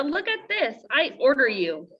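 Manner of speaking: a lightly voiced princely order; princely command. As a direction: play the little prince giving orders. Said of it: "as princely as possible".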